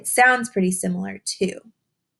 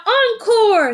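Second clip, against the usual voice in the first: a high, loud cheer of encore; shout; 6 dB louder than usual. Acted. Audience shouting for more after the bow, loud happy call. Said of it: "if we clap loud and shout".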